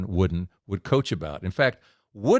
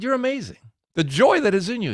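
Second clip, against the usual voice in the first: much higher, wonder-struck praise; amazed admiration; 11 semitones higher than usual. Retold or imitated. Preacher praising the hotel worker, awed. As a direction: tell him he's amazing with awe.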